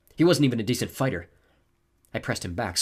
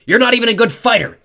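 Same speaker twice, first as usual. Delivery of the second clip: high, loud shouted jeer; emboldened, angry put-down; defiant taunt; 14 semitones higher, 14 dB louder than usual. A narrator's reading. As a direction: shout scorn at your opponent. Clarice taunts her opponent.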